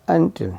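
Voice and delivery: "until" opening on a short UH. Shown as a demonstration. Teacher showing how U sounds, short UH opening "until". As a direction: say "until" as "un-til", starting with UH. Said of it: "यू की आवाज़ अ की है".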